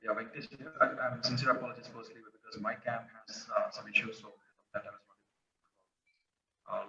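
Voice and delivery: faint, far from the mic; almost inaudible, very soft; barely audible. Real, not acted. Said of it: "Your voice is very low".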